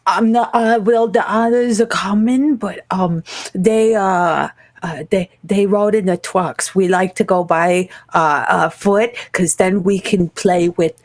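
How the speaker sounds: put-on halting kid explaining herself; little girl voice. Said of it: "Yeah, she goes".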